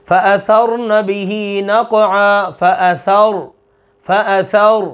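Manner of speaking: फ़अथर slow with a full heavy r; heavy ra demo. Shown as a demonstration. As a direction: stretch फ़अथरन and thicken the ra. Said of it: "देखिए ये रा".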